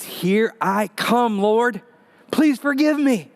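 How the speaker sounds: slow, then rising to a high plea; a teen sure he is about to die; resigned last prayer. Retold or imitated. Scared teen praying to God at gunpoint, resigned plea. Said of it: "what went through my mind was".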